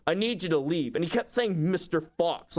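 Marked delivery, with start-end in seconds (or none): 0.1-0.9 degrading. Retold or imitated. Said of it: "in a really degrading way". 1.7-2.6 degrading. Retold or imitated. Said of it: "in a really degrading way".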